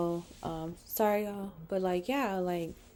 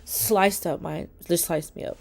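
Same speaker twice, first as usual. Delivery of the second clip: louder, tearful telling of betrayal; 4 dB louder than usual. Real, not acted. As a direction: push through the hurt while crying. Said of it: "I didn't mean to cry".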